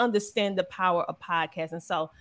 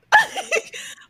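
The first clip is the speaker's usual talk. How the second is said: tearful laugh; 5 dB louder than usual. Real, not acted. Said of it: "I can't cry".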